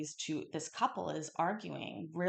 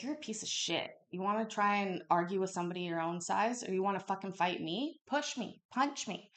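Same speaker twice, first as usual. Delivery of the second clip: retold blasting; faster than usual. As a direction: goad him, replaying the yelling. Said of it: "just blasting this dude".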